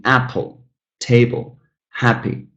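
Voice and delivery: "apple, table, happy" each stressed on the first syllable. Shown as a demonstration. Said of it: "stress falling on the first syllable".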